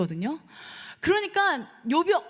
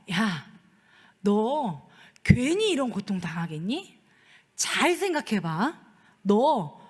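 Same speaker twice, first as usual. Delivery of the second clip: 충고하는 친구들; 6 semitones lower than usual. Acted. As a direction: lower your voice like a friend urging a confession. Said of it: "그러니까 친구들이요". (낮은 목소리로 타이르는 친구 연기)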